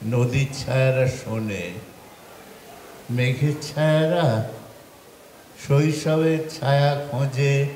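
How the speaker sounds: lilting verse recital, falling at stanza ends; poetry recitation. Acted. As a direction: recite the poem with pauses after each line. Recites second poem. (ছন্দে ছন্দে কবিতা আবৃত্তি)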